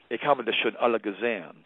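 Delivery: German sentence in mild mock mother voice; mother's German words. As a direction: quote mom's German lightly. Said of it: "she said in German".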